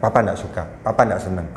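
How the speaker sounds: put-on low, steady voice telling a child no; calm firm disapproval. Shown as a demonstration. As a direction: show displeasure gently but firmly. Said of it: "Kita cuma nunjukkan".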